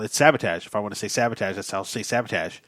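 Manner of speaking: "sabotage" insisted on as SAB-uh-tazh; lightly quoted actor insisting on "sabotage" as SAB-uh-tazh; William Shatner. Retold or imitated. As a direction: say each "sabotage" with stress on SAB, ending tazh. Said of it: "told by a famous actor".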